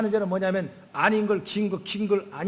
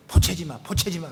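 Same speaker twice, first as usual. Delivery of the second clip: mother's nagging; 2 semitones lower than usual. Retold or imitated. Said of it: "맨날 포체지 마라고 그러는데".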